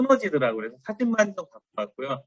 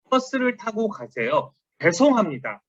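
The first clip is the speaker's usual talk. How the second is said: well-meant apology; 4 semitones higher than usual. Retold or imitated. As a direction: say it unhurriedly, as well-meant advice. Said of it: "이분은 선의로 한 얘기입니다".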